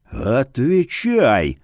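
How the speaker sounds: menacing whispered bark; holding back a shout. Acted. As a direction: snap it out hushed but fierce. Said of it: "грозным шёпотом рявкнул Яромир".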